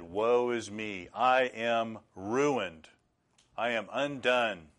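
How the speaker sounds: slow, drawn-out lament; a touch of dread, each word stretched; mild acted terror. Isaiah reacting to God in his throne room, slow dismay. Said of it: "This is terror".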